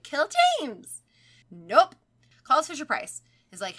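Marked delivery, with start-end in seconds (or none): 0.0-1.0 high, loud toy threat; creepy doll voice. Retold or imitated. Doll repeats its threat as mom walks in, high and loud. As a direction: shout it like the possessed Elmo. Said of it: "It's just like".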